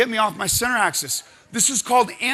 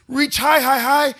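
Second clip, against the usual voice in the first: louder, higher cue to reach; rising coach's call; coaching call; 5 semitones higher, 7 dB louder than usual. Real, not acted. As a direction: push them to stretch up. Coach cueing a stretch.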